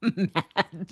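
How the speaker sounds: slow and loud through real laughter; laughing it out. Real, not acted. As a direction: laugh helplessly at your own fury. Laughing at her own anger.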